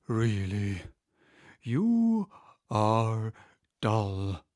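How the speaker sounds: word-by-word scornful turtle; peevish. Acted. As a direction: scold her for being slow. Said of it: "said the Mock Turtle angrily".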